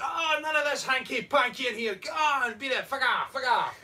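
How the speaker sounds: loud, high hammed-up outrage; angry barman. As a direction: throw them out in mock fury. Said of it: "The barman's like".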